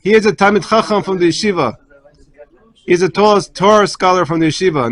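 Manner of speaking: put-on a kid shouting his find to his mother; excited child shouting. Child at the door calls to his mother, excited shout. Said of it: "he starts screaming".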